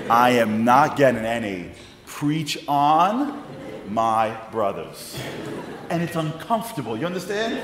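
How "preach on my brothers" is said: lightly imitated drawn-out church call; mock congregation call. Speaker quotes the praise he isn't getting, mock slow call. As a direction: stretch out a mock church encouragement.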